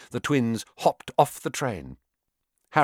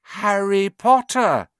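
slow, higher, louder chorus; 9 semitones higher, 6 dB louder, slower than usual. Acted. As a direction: say it together like twins. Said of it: "chorused the twins".

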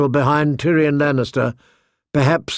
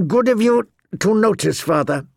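through clenched teeth; 6 semitones higher than usual. A narrator's reading. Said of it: "he said through clenched teeth".

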